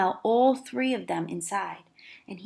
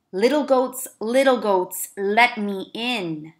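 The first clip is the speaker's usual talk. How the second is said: loud, slow wolf calling at the door; a sly wolf asking to be let in; big bad wolf coaxing; 5 dB louder, slower than usual.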